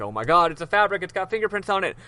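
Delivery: gasping realization, lightly hammed up; astonished judge. Judge reacting to the fabric with fingerprints, mock astonished.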